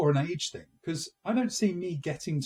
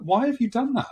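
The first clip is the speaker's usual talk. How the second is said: disapproving mum; 9 semitones higher, 6 dB louder than usual. Retold or imitated. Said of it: "She was like".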